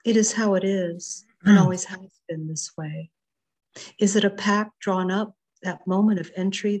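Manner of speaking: measured, expressive reading of a poem with long pauses; poetry reading. Acted. Poet reading her sea poem to the online group, measured and expressive. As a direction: let each line land, savouring the images.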